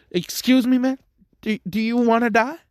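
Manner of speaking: high, loud threatening disbelief; incredulous yell. Retold or imitated. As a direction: shout them down in disbelief. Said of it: "And they're like".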